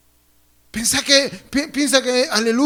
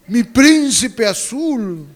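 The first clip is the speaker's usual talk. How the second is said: smitten wife; much slower than usual. Acted. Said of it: "La esposa lo ve a su esposo".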